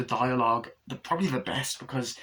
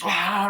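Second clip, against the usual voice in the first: mock gasp; 8 semitones higher, 5 dB louder than usual. Imitates corpse rising out.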